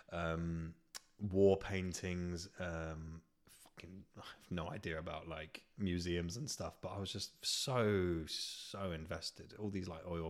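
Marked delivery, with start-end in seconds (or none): 3.6-6.7 breathy whispered aside, half to himself. Real, not acted. Admitting he knows nothing of museums, whispered. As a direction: drop to a whisper for the swear.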